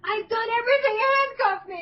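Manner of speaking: high-pitched desperate confession; acted-out frantic surrender; pleading Starscream. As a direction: give yourself up loudly. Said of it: "he's like".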